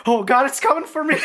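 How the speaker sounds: high laughing fake terror; mock panic through laughter, voice jumping high. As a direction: squeal it out, laughing at your own fear.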